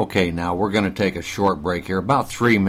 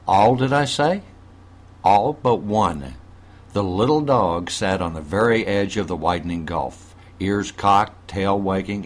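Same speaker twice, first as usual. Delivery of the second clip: story narration. A narrator's reading. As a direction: read the tale to listeners. Reads a story aloud.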